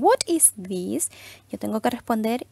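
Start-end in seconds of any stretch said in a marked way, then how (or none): 0.0-1.1 slow model question. Shown as a demonstration. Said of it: "si me preguntan".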